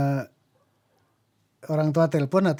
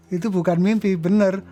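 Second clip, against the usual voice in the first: retold emphatic denial, louder and higher; stubborn insistence; 4 semitones higher, 5 dB louder than usual. Son insisting to his mother it was no dream, stubborn. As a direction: push the point with raised voice. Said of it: "Tapi saya ngotot".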